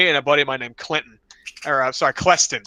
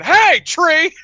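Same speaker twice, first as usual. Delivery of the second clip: high, loud laughing challenge; mock call-out; 13 semitones higher, 6 dB louder than usual. Narrator calling out to the tree, laughing mock yell.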